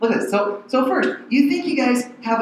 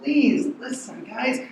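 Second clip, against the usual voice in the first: pleading; 4 semitones higher, slower than usual. Retold or imitated. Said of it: "Can you hear him pleading".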